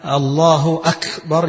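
the ك in أكبر hissed until it nearly becomes ش; fussy over-breathy ك in الله أكبر, close to a ش; overdone whispered k. Shown as a demonstration. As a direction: push the breath on the ك of أكبر almost into a sh. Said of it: "يتحزلق قوي في الهمس بتاع الكاف".

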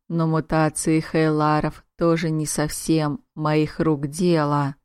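unhurried, smooth faerie lord. Acted. Faerie prince speaks to heroine.

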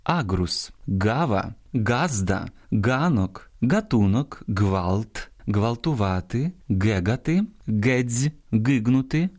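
вимова з ґ; hard g words. Shown as a demonstration. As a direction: list read with a hard stop g. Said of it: "послухайте і запам'ятайте найуживаніші слова".

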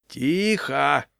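understated commanding bark; barked order. A narrator's reading. Leader above the crowd demanding silence, barking. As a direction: hush the crowd with one firm call. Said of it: "рявкнул сверху Егор".

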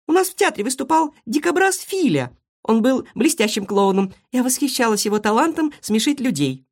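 high squeaky admiring voice; guinea pig voice. Acted. Marysya tells the hedgehog about the theatre, high and squeaky. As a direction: chatter up high like a small animal.

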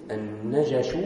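"النجش" with an a after both n and j; two fathas. Shown as a demonstration. Teacher reading out the dictionary's vowelling, "النجش" as najash. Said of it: "بفتحتين".

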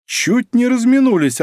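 cheerful surprise; glad exclamation. A narrator's reading. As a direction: greet him with feigned delight. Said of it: "обрадованно воскликнул Пронин".

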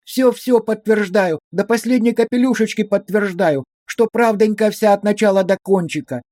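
high, pleading sing-song lament; wailing fawning plea. A narrator's reading. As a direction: fawn and wail like a frightened village woman. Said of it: "затараторила, запричитала, запела, заюлила". (высокое причитание нараспев)

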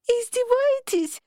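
high, drawn-out wail of protest; long, very high-pitched indignant cry; exasperated howl. A narrator's reading. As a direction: howl it slowly at the top of the voice. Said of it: "взвыла".

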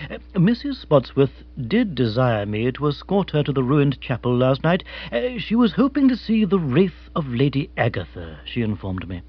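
lightly voiced, measured butler; discreet manservant. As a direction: explain with deferential formality. Jeeves explains himself to the lady.

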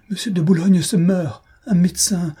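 high, desperate scream for help; piercing cry. A narrator's reading. Lady in the carriage crying for help, piercing and desperate. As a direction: cry out in terror for a doctor. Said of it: "un cri sinistre, déchirant".

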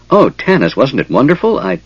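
high-pitched, excited chatter; piping. A narrator's reading. Tasslehoff telling Tanis of the ride, high and piping. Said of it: "piped Tasselhoff".

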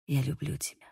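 low whisper into her ear; шёпот. A narrator's reading. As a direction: whisper it close and soft. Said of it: "прошептал Бейл мне на ухо". (шёпот на ухо)

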